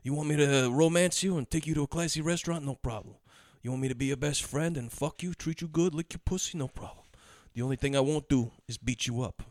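lightly voiced seduction pitch; Mark Ruffalo. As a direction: start firm, then soften into smooth promises. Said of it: "Mark Ruffalo is making his pitch".

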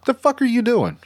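high, incredulous yell; exasperated yell at the quarterback. Retold or imitated. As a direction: yell in disbelief at a bad throw, up high. Yelling at quarterback on TV.

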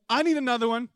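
high, loud, greedy exclamation; hammed-up hunger for seconds; eager mock demand. Acted eager demand for cake.

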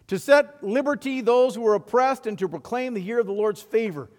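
Jesus reads Isaiah aloud to his hometown; Jesus reading scripture. Retold or imitated. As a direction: proclaim the prophecy to the synagogue. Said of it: "And Jesus began to read".

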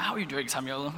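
mild imitation of a posh father; lightly posh English greeting; posh dad. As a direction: play Dad a touch posh. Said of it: "he's quite posh".

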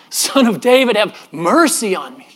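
imitated cry from the background; retold distant cry. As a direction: call out for mercy, stretching the end. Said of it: "this cry".

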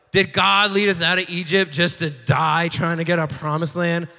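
mock melodramatic wail, slowing into the last lament; hammed-up woe-is-me whining; dramatic complaining. Israelites grumbling about the promised land, mock dramatic complaint. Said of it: "they're just getting all dramatic about it".

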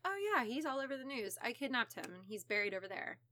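soft, quick and casual; calm, offhand confession. Retold or imitated. Suspect confessing to police about the kidnapping, calm and offhand. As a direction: toss it off quietly as if it were nothing. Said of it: "to which he calmly responds".

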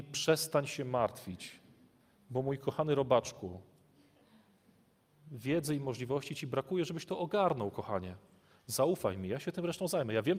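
a father comforting his little one; tender God voice. Retold or imitated. God comforting his beloved child, soft and tender. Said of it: "Kiedy Pan Bóg mówi".

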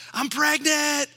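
high, loud, overjoyed announcement; excited rooftop shout. Pretend. Preacher imagines Elizabeth announcing her pregnancy, excited high shout. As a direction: shout the amazing news from the rooftops. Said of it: "shouting from the rooftops".

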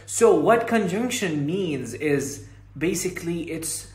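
very slow, spelled-out English for beginners; slow clear explanation. Retold or imitated. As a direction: explain it slowly like a learner's podcast. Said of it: "ففي البرنامج الصوتي يقول لك".

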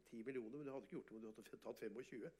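usual speaking voice

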